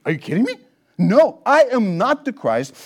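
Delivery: indignant denial, pushing back; mildly indignant retort. Retold or imitated. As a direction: scoff at the question, then deny it firmly. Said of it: "almost like he's indignant".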